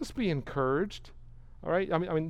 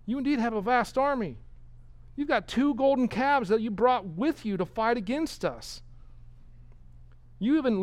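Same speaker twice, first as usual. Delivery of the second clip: higher, mildly scornful taunt; sarcastic; 5 semitones higher than usual. Retold or imitated. King scorning golden calves, higher sarcastic taunt. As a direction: needle the enemy about his calves. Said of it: "the sarcasm".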